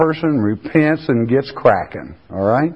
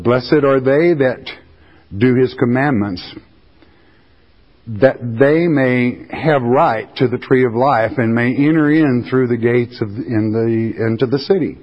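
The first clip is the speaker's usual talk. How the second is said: measured, deliberate Bible reading; scripture reading. Acted. Preacher reading the promise of the tree of life, measured. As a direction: weigh each word of the verse.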